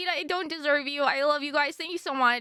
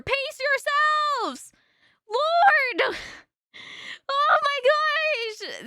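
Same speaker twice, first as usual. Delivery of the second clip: slow overwhelmed drawl; 9 semitones higher, 3 dB louder, much slower than usual. Real, not acted. Overwhelmed by gifts.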